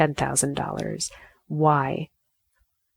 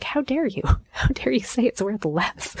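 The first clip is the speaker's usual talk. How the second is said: high-pitched outrage breaking into a laugh; mock indignant; 7 semitones higher than usual. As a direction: protest in a higher, half-laughing voice. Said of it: "It just makes me angry".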